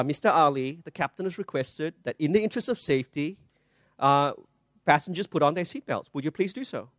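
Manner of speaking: soft, courteous stewardess request; very politely. Retold or imitated. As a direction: ask him politely and softly, like cabin crew. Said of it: "she says very politely".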